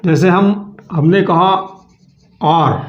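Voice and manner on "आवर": आर said with no h sound, starting on the vowel; silent h. Shown as a demonstration. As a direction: say आर with the h left silent. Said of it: "यहाँ पर H silent है".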